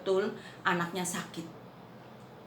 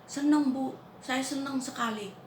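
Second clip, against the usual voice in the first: happy; 7 semitones higher than usual. Retold or imitated. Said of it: "Kamu senang?".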